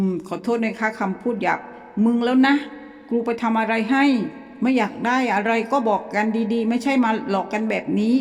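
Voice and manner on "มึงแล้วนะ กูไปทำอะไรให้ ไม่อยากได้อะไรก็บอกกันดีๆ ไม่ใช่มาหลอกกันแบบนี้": furious cursing. Retold or imitated. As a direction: swear at it, fed up and scared. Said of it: "ด่าไปว่า".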